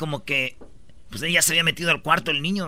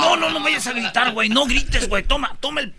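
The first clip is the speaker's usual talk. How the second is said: panicked pleading; 6 semitones higher than usual. Acted. Lover panics at threat to scream.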